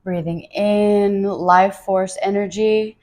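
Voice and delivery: slow, drawn-out breathing cue; breathing mantra. Shown as a demonstration. Teacher modeling what to rehearse while breathing in, slow mantra. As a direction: stretch it out like an inhale mantra. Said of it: "rehearse to yourself when you're breathing in".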